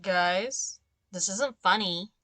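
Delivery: nasal nerdy voice through the nose. Pretend. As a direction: talk through your nose like a nerd. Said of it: "weird, nerdy voice talking through my nose".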